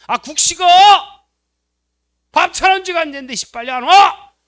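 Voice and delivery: loud furious yell at the family to come eat; angry yell. Retold or imitated. Wife yelling at kids and husband that the soup is cold, furious. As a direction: bark it out, fed up and shouting.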